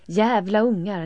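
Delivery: put-on loud, shrill-free yelled curse at the children; screaming curse. A narrator's reading. Elin screaming at her children in anger. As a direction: scream it at the kids in fury. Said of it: "skriker hon".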